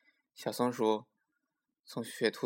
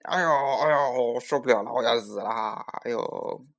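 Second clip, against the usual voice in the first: crying out; 5 dB louder than usual. A narrator's reading. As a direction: wail like a tiger burned by chili. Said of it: "直喊".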